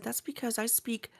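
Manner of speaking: breathy whispered aside. Retold or imitated. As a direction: whisper it like a secret. Whispered retort to the guys.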